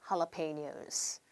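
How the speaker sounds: jalapenos very slowly, "ha-la-pe-nyos" with an h. Shown as a demonstration. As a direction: spell out jalapenos syllable by syllable. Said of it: "한 번 더 할게요". (jalapenos를 "할라페뇨스"로 아주 천천히)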